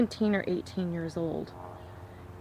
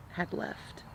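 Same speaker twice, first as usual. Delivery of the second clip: hushed whisper; 9 dB quieter than usual. Real, not acted. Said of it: "I felt her leave".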